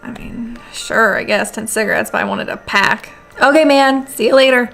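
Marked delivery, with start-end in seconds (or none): 3.4-4.7 a goofy, slightly raised voice for the neighbour; lightly voiced friendly neighbour Bob, a bit louder; odd put-on voice. Neighbour Bob saying goodbye at the door, goofy put-on voice. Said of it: "What was that voice?".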